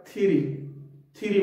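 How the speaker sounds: थ्योरी as a short 'thi-ree'; correct pronunciation demo. Shown as a demonstration. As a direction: say थ्योरी without the o. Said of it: "ई को हमने लंबा नहीं करना". (थ्योरी का सही उच्चारण, छोटा 'थिरी')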